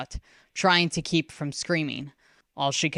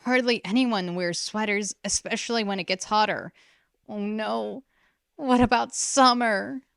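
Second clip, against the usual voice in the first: put-on higher, anxious girl rising to alarm; growing panic; 6 semitones higher than usual. A narrator's reading. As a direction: let fear build toward summer. Girl panicking about summer.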